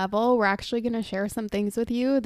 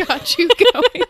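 teasing laugh; 9 semitones higher, 7 dB louder than usual. Real, not acted.

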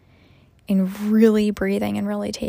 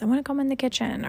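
put-on toddler voice; 5 semitones higher, faster than usual. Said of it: "he says".

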